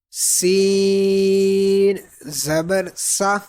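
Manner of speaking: سین stretched very long with a sharp hiss; whistling S. Shown as a demonstration. Teacher introducing a sibilant letter, سین with a whistle. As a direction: draw out سین slowly, whistle the S of سا. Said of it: "سیٹی کی آواز آنی چاہیے".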